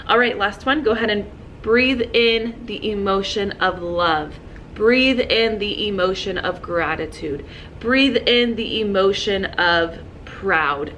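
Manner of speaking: slow and soothing, each "breathe" leaned on; slow calm guided breathing. Shown as a demonstration. Teacher leading her students' breathing, slow and soothing. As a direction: ease the class through breathing in love and gratitude. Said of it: "sometimes I like to say".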